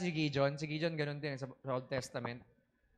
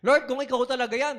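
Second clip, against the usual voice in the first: raised, higher plea across water; calling out; 5 semitones higher, 7 dB louder than usual. Acted. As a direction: call to him from the boat, unsure. Peter calls out to Jesus. (tawag na may duda)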